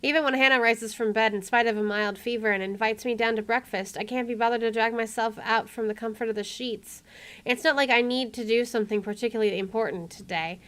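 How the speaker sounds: measured first-person narration; story narration. Acted. Player reading the game's inner monologue, story narration. Reads game narration aloud.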